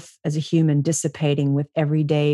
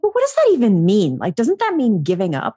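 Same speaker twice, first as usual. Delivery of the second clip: quick, higher and louder, retelling her annoyance; irritated retort; 3 semitones higher, 3 dB louder than usual. Retold or imitated. Retelling her reply to the coaches' surrender advice, mock irritated. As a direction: fire it back like the advice insults you. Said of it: "And I got so irritated".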